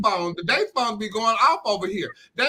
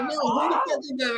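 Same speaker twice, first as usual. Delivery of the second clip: confrontational shout; 5 semitones higher, 3 dB quieter than usual. Acted. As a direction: shout it like you caught someone texting your man. Confronting a flirty text sender.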